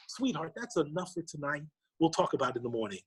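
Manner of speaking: softly, gently soothing; soothing parent. Retold or imitated. Father to his tearful daughter at bedtime, gently soothing. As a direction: settle a child with a soft, brief reassurance.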